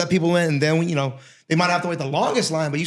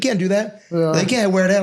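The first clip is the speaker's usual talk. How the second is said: slow coach warning; much slower than usual. Retold or imitated. Coach warns about nails, slow.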